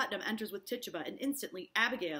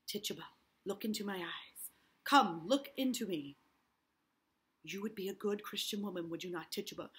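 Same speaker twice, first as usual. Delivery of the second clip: soothing coax. Acted. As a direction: lull her into trust. Hale soothing Tituba.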